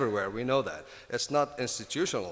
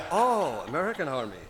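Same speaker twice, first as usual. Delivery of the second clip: surprised realisation; 4 semitones higher, 5 dB louder than usual. Retold or imitated. Surprised listener retold.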